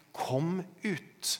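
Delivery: high but restrained quoted call; retold call. Preacher repeats what Jesus calls, high restrained call. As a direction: lift the pitch as if calling, without full volume. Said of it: "Når han roper".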